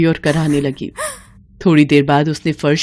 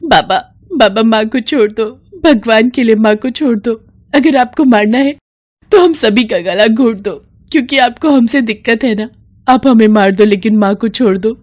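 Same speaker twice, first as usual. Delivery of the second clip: higher, pleading voice; mild tearful pleading; pleading daughters; 4 semitones higher than usual. Acted. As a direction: beg the father to spare mother. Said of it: "रो रो कर और गिड़गिड़ा कर".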